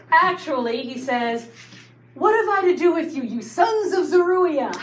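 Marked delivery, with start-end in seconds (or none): 2.1-4.7 stern David rebuke. Retold or imitated. David rebukes his nephews.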